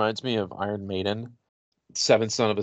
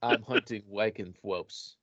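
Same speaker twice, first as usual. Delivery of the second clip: laughing quote; 5 dB quieter, slower than usual. Retold or imitated. Co-host quoting the character, laughing.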